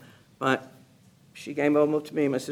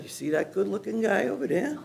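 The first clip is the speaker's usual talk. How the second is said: teasing sister-in-law; 3 semitones higher, faster than usual. Retold or imitated. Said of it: "She said".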